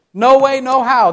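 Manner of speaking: high, emphatic refusal; mock rough denial. Peter denying Jesus with curses, toned-down mock vehemence. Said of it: "rough language".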